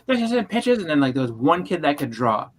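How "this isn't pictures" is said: high scornful teacher voice; mock angry teacher. Angry old teacher mocking a pupil's drawings. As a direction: scoff at the pictures. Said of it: "she's like".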